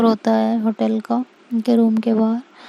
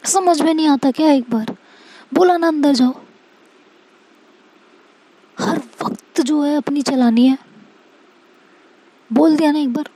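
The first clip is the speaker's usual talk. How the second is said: higher, sharp mock yell; losing patience with a clingy girlfriend, mild mock yell; snapping at her; 3 semitones higher than usual. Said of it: "सीरत उस पे एकदम से चिल्ला पड़ती है".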